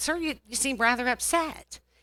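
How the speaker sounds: put-on passive-aggressive calm. Retelling what they said to a screaming man wanting a golf cart: passive aggressive. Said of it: "that's when I go to my passive aggressive".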